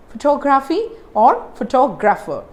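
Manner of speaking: "photography or photographer", TOG stressed in both; careful model "photography or photographer", weight on second syllables. Shown as a demonstration. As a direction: lean on TOG: pho-TOG-raphy, pho-TOG-rapher. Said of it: "This is where I give the stress".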